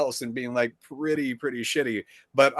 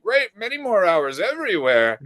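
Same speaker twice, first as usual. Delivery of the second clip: higher sarcastic sigh; dry mock enthusiasm; 7 semitones higher than usual. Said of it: "I'm like".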